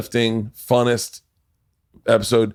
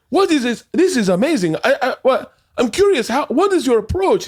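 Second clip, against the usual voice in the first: high, excited, incredulous gushing; amazed creator, imitated. Show's creator marvelling at the approach, high imitated amazement. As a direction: gush in high-pitched amazement. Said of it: "he's like".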